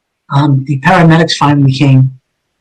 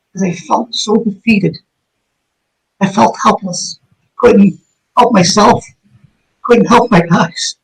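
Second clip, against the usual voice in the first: slow, higher, heavy with real grief; choked-up sadness; 5 semitones higher, slower than usual. Real, not acted. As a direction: let the helplessness slow every word. Recalling helpless defeat.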